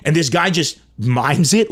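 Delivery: ordinary delivery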